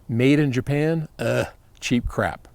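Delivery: sneering, slow put-on voice of disgust; mock disdain. Host mocking old buyers of Japanese goods, sneering disdain. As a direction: scoff at the label like a snob.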